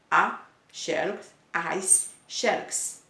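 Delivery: slow, with "A" and "as" each set apart before "xerox"; contrast on the article. Shown as a demonstration. Teacher showing that only the article changes, "A" and "as" slowly separated. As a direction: pause after "A" and "as" to show what changes. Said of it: "o que vai mudar aqui é o artigo".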